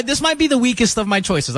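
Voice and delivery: ordinary delivery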